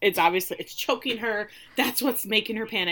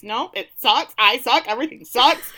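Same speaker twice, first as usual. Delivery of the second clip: louder, higher whiny groan of despair then a laugh; mopey self-pity; 4 semitones higher, 7 dB louder than usual. Retold or imitated. Benedict rejecting the artist's praise, whiny and loud. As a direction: wallow dramatically, half laughing. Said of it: "And Benedict's".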